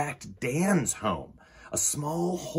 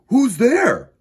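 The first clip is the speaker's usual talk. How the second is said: a louder, higher chorus of friends; chorus asking; 11 semitones higher, 11 dB louder than usual. A narrator's reading. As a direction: ask all together, eager. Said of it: "asked Rosie, Leo, and Dan in unison".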